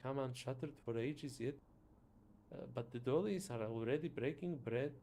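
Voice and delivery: put-on a Scottish accent modelled on Shrek. Teasing about the tight ship, Scottish accent like Shrek. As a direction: roll it like Shrek would. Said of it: "think like Shrek".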